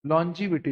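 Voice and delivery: teacher models लॉन्जिविटी as lon-ji-vi-ti with a falling close; pronunciation demo. Shown as a demonstration. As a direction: spell out लॉन्जिविटी clearly for the class to repeat. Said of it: "बोलो सब लोग एक साथ".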